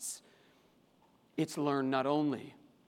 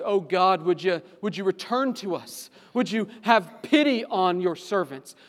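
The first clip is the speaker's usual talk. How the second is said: pleading cry to God; 2 semitones higher, 6 dB louder than usual. Acted. Preacher voicing Moses crying out to God. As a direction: cry out for grace. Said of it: "Moses cries out for grace".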